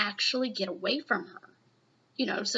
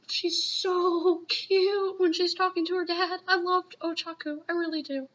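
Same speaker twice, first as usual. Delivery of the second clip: adoring gush; 6 semitones higher than usual. Real, not acted. Fan watching Ochaku talk to her dad, adoring gush. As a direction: coo it high, full of fondness. Gushing over a favourite character.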